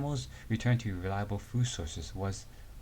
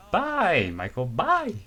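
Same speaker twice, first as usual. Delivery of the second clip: high, loud call after him; loud parting call to a boy walking off; calling goodbye; 9 semitones higher, 5 dB louder, much slower than usual. Acted. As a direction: shout goodbye as he leaves.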